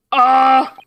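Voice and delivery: loud, brief mock scream; acted scream. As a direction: let out a performed cry of alarm. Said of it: "Such a high-pitched scream".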